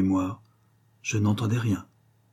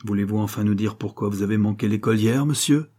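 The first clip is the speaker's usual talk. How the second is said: voix glaciale. Acted. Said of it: "d'une voix glaciale".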